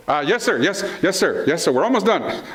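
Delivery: hurried, mock-obedient answers to dad; caught-out kid. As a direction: lightly act a son caught napping. Caught napping, answering his dad.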